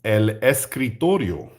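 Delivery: "el escritorio" said as Spanish; Spanish pronunciation. Shown as a demonstration. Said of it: "you say".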